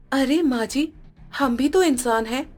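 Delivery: pleading daughter-in-law. Acted. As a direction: gently argue for fairness. Sunita pleads.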